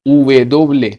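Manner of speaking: उवे दोबले, slow and clear; Spanish letter name. Shown as a demonstration. Teacher to students, Spanish double v. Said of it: "W को कहते हैं".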